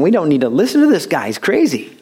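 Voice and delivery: mildly mocking, quick dismissal; dismissive doubters. Crowd rejecting Jesus, lightly acted dismissal. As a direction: brush him off as crazy. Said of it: "that's exactly what they're saying".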